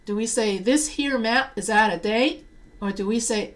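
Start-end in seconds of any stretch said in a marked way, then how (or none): 0.6-2.5 Southern accent. Shown as a demonstration. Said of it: "the reason why I did the Southern accent".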